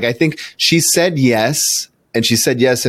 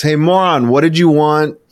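higher-pitched mock call across a cafe; retold yell; 6 semitones higher than usual. Calling his date across the Starbucks, mock yell. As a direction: imitate calling out to someone across the room. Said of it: "I yelled across the Starbucks".

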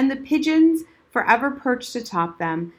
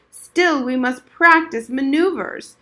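put-on old veteran remembering; 4 semitones higher, 5 dB louder than usual. Old soldier orders drill.

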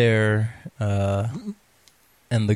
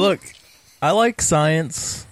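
smug; 5 semitones higher, slower than usual. Acted. Joking in-character as Isaac.

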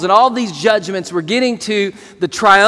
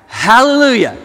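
loud; 5 dB louder than usual. Real, not acted. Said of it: "say that with me right now".

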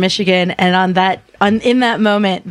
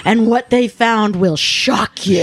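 clickbait video narrator; 4 semitones lower than usual. Pretend. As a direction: sell it like a shocking trailer. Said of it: "they would bill as being like".

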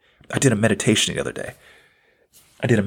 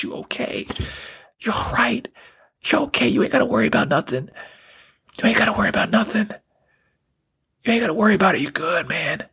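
high, quick, insistent comforting; urgent, high-pitched reassurance to a child; emotional reassurance; 9 semitones higher than usual. Acted. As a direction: comfort a small boy, voice lifted high. Comforting his eight-year-old self.

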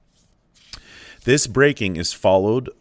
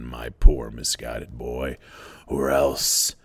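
schoolmaster; 3 semitones lower than usual. Acted. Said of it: "spoke in the voice of a schoolmaster".

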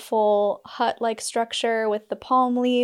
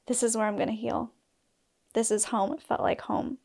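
choked-up quiet; 5 dB quieter than usual. Real, not acted. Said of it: "I'm getting em-, emotional".

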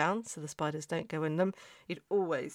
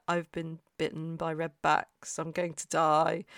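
melodramatic panic; 4 dB louder than usual. Retold or imitated. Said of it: "I was actually that melodramatic".

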